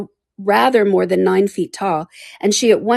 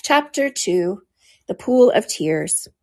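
plain reading voice

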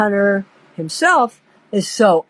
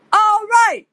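lightened up; 13 semitones higher, 4 dB louder than usual. Retold or imitated. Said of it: "lightened up".

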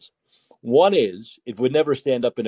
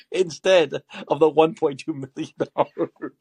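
laughing while reading; 2 semitones higher than usual. Real, not acted. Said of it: "I can't even read this without laughing".

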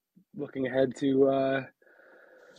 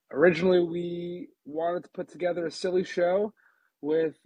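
normal talking voice

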